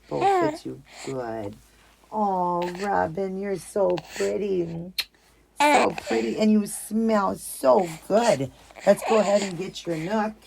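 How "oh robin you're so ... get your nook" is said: put-on higher, slow doting coo to a baby; tender mother cooing; cooing baby talk. Cooing over a doll.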